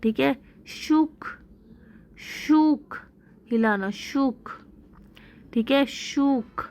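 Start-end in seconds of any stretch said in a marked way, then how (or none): 0.7-3.0 शुक with the oo held long, pitched high; higher model word शुक, long oo. Shown as a demonstration. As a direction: stretch the vowel in शुक before the k. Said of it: "long है".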